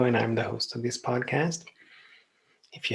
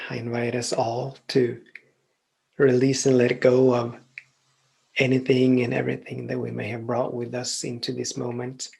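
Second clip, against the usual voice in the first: measured invitation with long pauses between phrases; guided meditation. Real, not acted. Host invites listeners to settle and close eyes, guided meditation. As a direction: ease them into stillness, pausing between phrases.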